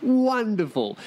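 high, drawn-out wonderful. Retold or imitated. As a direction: coo it like the kiss-blowing guy. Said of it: "that dude in his fucking car blowing me kisses".

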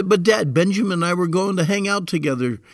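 put-on whiny kid excuse. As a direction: whine like a kid dodging a chore. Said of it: "Or he could say".

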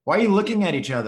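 mock suspicious. Playful mock accusation.

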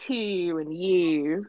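"to" and "you" with drawn-out Baltimore vowels; slow Baltimore "to" and "you". Shown as a demonstration. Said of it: "pronounce, like, their, like, words".

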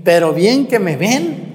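lightly voiced backbiting neighbour; mock gossip. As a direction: sneer it like the town gossips. Mocking what people say.

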